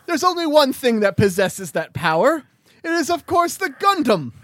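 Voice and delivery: high-pitched, declamatory mock-British; shouted British accent. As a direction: proclaim the deduction as a bad British sleuth. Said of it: "shouting is my British accent".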